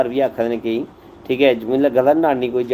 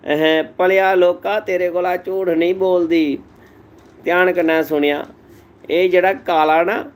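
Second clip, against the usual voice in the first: wife's voice; 4 semitones higher than usual. Acted. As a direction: play the wife owning up, voice raised. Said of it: "ਉਹਦੀ ਜਨਾਨੀ ਬੋਲੀ". (पति से सच कबूलती पत्नी, ऊँची आवाज़ में)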